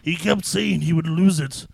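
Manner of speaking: lightly theatrical demon; a hint of demonic intoning. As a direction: speak as a demon at a funeral. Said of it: "From my demon voice".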